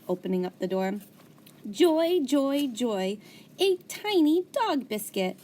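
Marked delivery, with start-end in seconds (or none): 1.7-5.4 high loud gleeful joy; joyful squeal. A narrator's reading. Hamster gleeful over a dog biscuit, high and loud. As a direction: squeal with delight.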